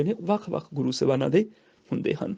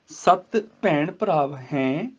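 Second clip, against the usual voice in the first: slow ਸੱਤ ਭੈਣ ਭਰਾਵ ਹੈ, resting at the end; pause after ਹੈ; much slower than usual. Shown as a demonstration. Teacher showing where to rest, slow line halting after ਹੈ. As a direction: stretch nasal ਹੈ, then stop. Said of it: "ਹੈ ਤੋਂ ਬਾਅਦ ਰੁਕਣਾ".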